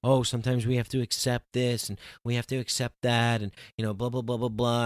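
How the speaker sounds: a mocking singsong parody of people's advice; sneering at the spiritual people's advice. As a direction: parrot their platitudes dismissively. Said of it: "I was mocking the, what people were saying".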